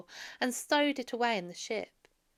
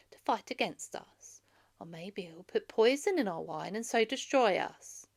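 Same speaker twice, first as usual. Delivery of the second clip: mocking suitor; 2 semitones higher, 6 dB louder than usual. Suitor mocking Telemachus' plans.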